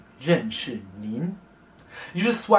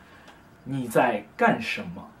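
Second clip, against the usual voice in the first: 你在干什么 said slowly, each syllable spaced; slow demo. Shown as a demonstration. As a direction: spell out 你在干什么 slowly for learners. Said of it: "either say".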